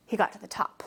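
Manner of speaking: hushed suspense whisper. Acted. Teacher hushing the class at the top of the beanstalk, whispering.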